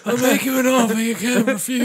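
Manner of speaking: badly faked Italian godfather; botched Italian accent. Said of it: "You didn't fucking sound Italian".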